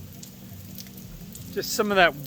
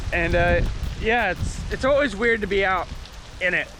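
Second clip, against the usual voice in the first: raised voice over a storm; shouting over wind; 3 semitones higher than usual. Real, not acted. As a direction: call out over wind and rain. Filming outside during the hurricane.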